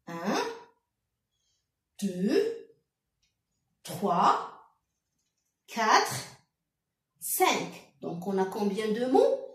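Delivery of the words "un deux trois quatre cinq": one number at a time with long pauses; counting slowly. Shown as a demonstration. A teacher counting five words aloud for pupils, slow. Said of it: "comptez avec moi".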